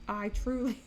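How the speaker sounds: giggling while telling it; laughing. Real, not acted. Laughing after big scare.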